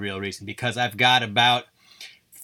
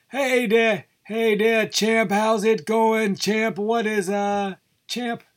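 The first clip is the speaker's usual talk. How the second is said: much higher, hammed-up old boxing announcer; bad Howard Cosell; 11 semitones higher, slower than usual. Host retrying the impression for the podcast, much higher and hammed-up. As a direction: push the voice way up and ham up the ringside sportscaster. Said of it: "bad Howard Cosell impression".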